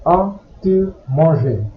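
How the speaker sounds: slow, careful French example. Shown as a demonstration. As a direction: read it out slowly for the learner. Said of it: "As an example".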